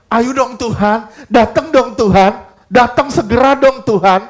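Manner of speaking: pleading with longing on each "dong"; eager longing plea. Shown as a demonstration. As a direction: beg the Lord to come, fervently. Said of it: "kalau mau lebih kuat gini nih". (memohon dengan rindu)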